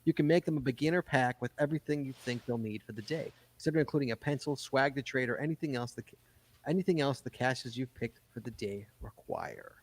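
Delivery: brisk read-aloud voice. Acted. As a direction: read it like an article. Reads article aloud.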